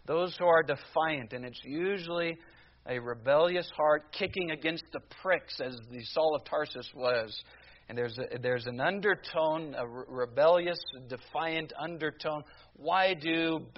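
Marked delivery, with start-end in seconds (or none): none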